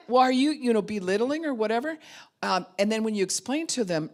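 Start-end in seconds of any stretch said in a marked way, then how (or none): 0.1-2.0 high, loud questioning challenge; loud mock objection. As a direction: push back hard as the offended listener. Imitating an objecting listener.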